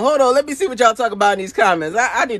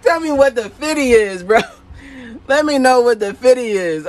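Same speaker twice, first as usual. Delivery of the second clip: laughing. Real, not acted. Asks viewer while laughing.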